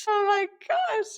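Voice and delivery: high, loud shriek of delight; excited shout. Real, not acted. Recalling the absurd singer, shrieks with real delight. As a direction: shriek it, overcome with amusement. Cracking up at the memory.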